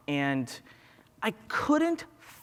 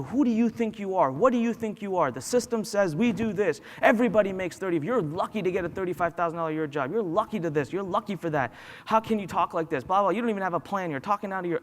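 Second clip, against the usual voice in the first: upset and angry; 3 semitones higher, faster than usual. Retold or imitated. Retelling a friend going off about lucky jobs, upset and angry. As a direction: imitate an angry friend's rant. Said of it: "my friend got upset and angry".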